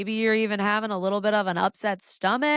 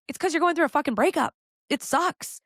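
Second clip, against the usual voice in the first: exasperated burst; 7 semitones higher than usual. Real, not acted. Exasperated reassurance to the viewer.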